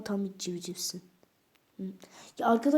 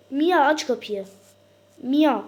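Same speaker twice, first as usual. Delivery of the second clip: loud demanding shout; play-acted loud call; calling out loudly; 5 semitones higher, 12 dB louder, slower than usual. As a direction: yell her name through the door. Banging on Mia's door.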